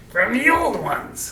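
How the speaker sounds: slow, drawn-out prompt; slow demo. Shown as a demonstration. Parent shows the child how to say it, slowly. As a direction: lay it out slowly. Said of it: "say it with a gravelly voice".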